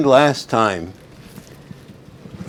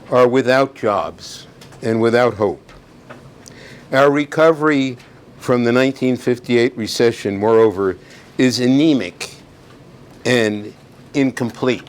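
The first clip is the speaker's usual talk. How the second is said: formal speech reading; 3 dB louder than usual. Acted. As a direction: read it like a presidential address. Reads State of the Union aloud.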